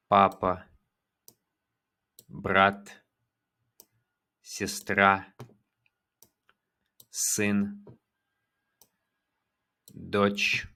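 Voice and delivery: ordinary talk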